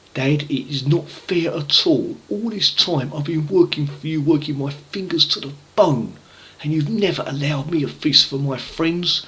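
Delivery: mild mock grievance; aggrieved son. Elder brother protests to his father, mildly aggrieved.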